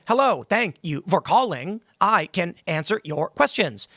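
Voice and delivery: slow, evenly paced recorded-prompt voice; automated phone voice. Retold or imitated. Mocking a bank caller with a slow automated greeting. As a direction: read each word like an old phone menu. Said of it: "a voice on the phone going".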